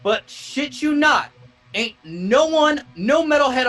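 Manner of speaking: high, loud fanboy rant; excited. Real, not acted. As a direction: gush about him loudly. Excited rant about a singer.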